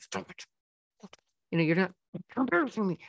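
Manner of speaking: hissed whisper-shouting. A parent shows how they scold their child in public, whisper yelling. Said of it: "what's called whisper yelling".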